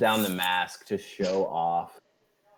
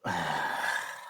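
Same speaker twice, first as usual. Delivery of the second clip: weary sigh; 5 semitones lower, 6 dB quieter than usual. Acted. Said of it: "dejected sigh".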